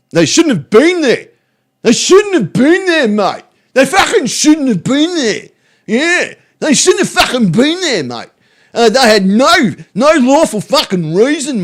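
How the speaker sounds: high, punchy hammed-up indignation; mock outraged rant. Streamer parodying a post about police, in high mock outrage.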